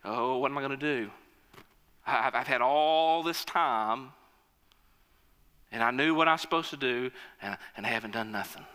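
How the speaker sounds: fretting under his breath; worried inner thoughts. Acted. Servant dreads facing the king, anxious mutter. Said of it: "and he's thinking".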